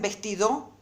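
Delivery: VESTIDO stressed on its last syllable, ves-ti-DO; misplaced stress on the DO of VESTIDO; wrong last-syllable stress. Shown as a demonstration. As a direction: say VESTIDO wrongly, punching the final DO. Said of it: "acentuarla mal como hago yo".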